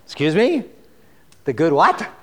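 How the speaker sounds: mock disbelief, rising; a listener who can't believe the words; puzzled "the good what?" on a rise; incredulous. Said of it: "You're going".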